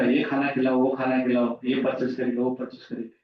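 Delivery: a low, monotone list of mock demands; imitated demanding spouse. Imagining a newlywed spouse ordering food and shopping, lightly mock-demanding. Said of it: "और बोलेगा".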